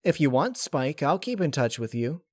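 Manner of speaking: breezy promise to a sad friend; lightly voiced Rainbow Dash.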